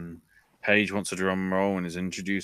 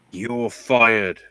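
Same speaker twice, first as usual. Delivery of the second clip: mock firing shout; 2 semitones higher, 8 dB louder than usual. Paige firing Ellsworth.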